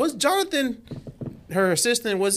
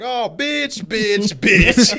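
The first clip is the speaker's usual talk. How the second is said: put-on grumpy old man; 8 semitones higher, 6 dB louder, much slower than usual. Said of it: "Grandpa Simpson was like".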